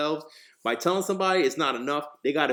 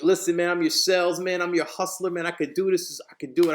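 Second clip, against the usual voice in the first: higher, eager sales pitch; excited pitch; 4 semitones higher than usual. Retold or imitated. Young applicant pleading for a sales job, excited. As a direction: sell yourself eagerly. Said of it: "but excited".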